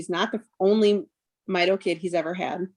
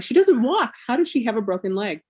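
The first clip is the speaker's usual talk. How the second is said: baffled protest; 4 semitones higher than usual. Retold or imitated. Retelling her disbelief at diagnosis.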